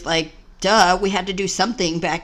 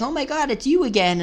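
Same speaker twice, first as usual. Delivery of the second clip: higher-pitched mimicked exclamation; mock surprise; 6 semitones higher than usual. Staff greeting a returning patient, mock surprised. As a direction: imitate exasperated recognition in a raised voice.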